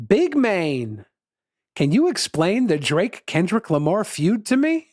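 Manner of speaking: lightly voiced dad asking his son; swooping pitch, a curious father reading out his question; lightly acted, questioning lilt; Tom Hanks. Reads Tom Hanks's text as a quote.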